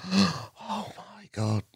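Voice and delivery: slow, high, breathless wonder; amazed. Retold or imitated. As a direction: drag it out, stunned by the size. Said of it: "and you're like".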